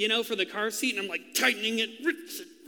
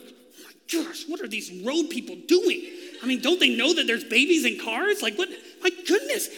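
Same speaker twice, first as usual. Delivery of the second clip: mock outrage; 3 semitones higher than usual. Mock outrage at road workers.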